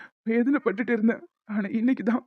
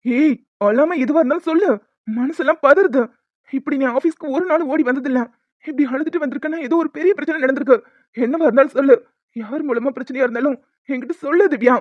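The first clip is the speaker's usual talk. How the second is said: anxious pleading; 4 dB louder than usual. Acted. Husband alarmed by her tears.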